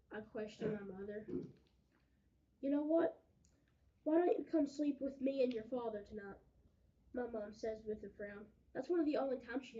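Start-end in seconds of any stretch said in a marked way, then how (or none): 2.6-6.4 loud, higher urgent offer. Acted. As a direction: blurt out the offer. Mother offers comfort.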